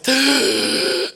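high, hammed-up gasp; mock heartburn gasp. Preacher imitating a body with heartburn, mock gasping. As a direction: gasp as if heartburn just struck. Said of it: "your whole self is like".

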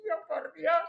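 high, loud mock dismay; acted horrified exclamation. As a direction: replay a mother's alarmed outcry. Madre reacciona horrorizada al accidente. (exclamación de espanto imitada, aguda y fuerte)

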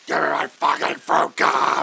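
put-on whiny baby. Baby voice bit.

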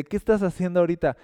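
brisk nosy inquiry; curious questioner. Acted. Acted questioner in imagined exchange.

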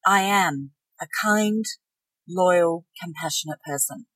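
nothing to prove, just know it. Shown as a demonstration. Final stage of knowing, calm and sure. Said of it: "the knowing".

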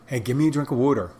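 put-on quick Philadelphia accent, casual order. Ordering water like a Philadelphia local, fast Philly accent. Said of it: "That's Philadelphia".

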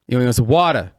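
"water" American-style, T softened to a D. Retold or imitated. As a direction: say "water" as "wadder". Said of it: "Just 'cause I put the T in there".

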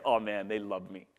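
self-mocking swagger, lightly put on; cocky. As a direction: imitate your own smug self, understated. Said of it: "and I would be cocky".

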